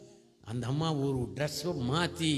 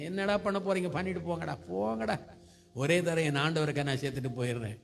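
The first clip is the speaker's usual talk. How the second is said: imitating a fearless challenge, pitched up; bold defiance. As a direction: dare the authorities, brushing them off. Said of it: "தைரியமா போறாரு". (தைரியமா சவால் விடும் குரல்)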